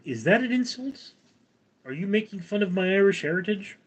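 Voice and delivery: high, hammed-up indignant questions; faux-hurt Irish pride, high and quick; mock offended. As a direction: play at being insulted, pitch jumping up. Chat mocks Potato Fest.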